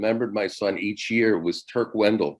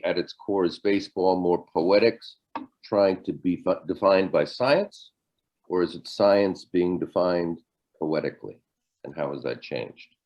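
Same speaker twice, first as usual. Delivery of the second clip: quicker, lower recap of a question; brief repeat; 3 semitones lower than usual. Real, not acted. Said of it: "I'll repeat it briefly".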